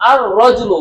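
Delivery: আর রজুলু with the lam silent, ar-rajulu; sun letter assimilation. Shown as a demonstration. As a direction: say আর রজুলু as one flowing word, no L sound. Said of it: "লামটি উচ্চারণ হচ্ছে না".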